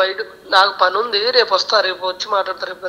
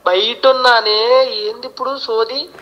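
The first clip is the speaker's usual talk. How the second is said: irritated yelling. Real, not acted. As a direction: snap back down the phone, annoyed. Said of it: "ఎందుకు అరుస్తున్నావు నా మీద".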